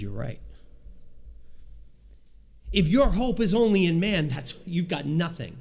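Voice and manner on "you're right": voicing the Lord. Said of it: "And the Lord says".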